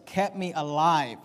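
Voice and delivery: "kept me alive" slowed, stress on "kept"; emphasised words. Shown as a demonstration. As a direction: lean on "kept" and take "kept me alive" slowly. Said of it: "notice these words".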